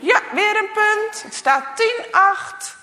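loud, high referee call. Acted. The referee calls the score to the players, loud. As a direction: call the score across the playground. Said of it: "De scheidsrechter roept".

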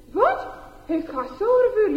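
can't believe what you see; amazed. Acted. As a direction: classmates stunned that Gasore won. Boys amazed at Gasore.

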